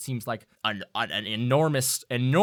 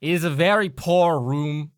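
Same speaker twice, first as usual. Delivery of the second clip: louder put-upon gnome voice; grumbling gnome; 4 semitones higher, 7 dB louder than usual. Acted. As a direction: complain formally as a gnome. GM voicing the gnome.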